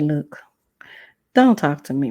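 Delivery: hushed whisper, voice dropped to breath; retold whisper. Student whispering to the teacher to leave her alone. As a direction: warn him off under your breath. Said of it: "I said".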